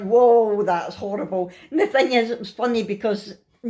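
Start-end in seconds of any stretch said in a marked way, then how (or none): 0.0-1.5 mock horrified reaction, loud on the first word; retold shock. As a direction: recoil with a drawn-out whoa. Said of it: "we were like".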